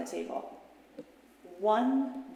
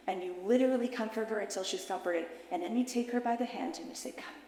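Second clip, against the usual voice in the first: guided visualization. Acted. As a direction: lead her gently back into the memory.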